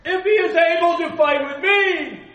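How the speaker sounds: slow, huge roaring giant voice at the top of the lungs; booming Goliath. Acted. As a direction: bellow the challenge like a giant warrior. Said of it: "it's better if I do it this way".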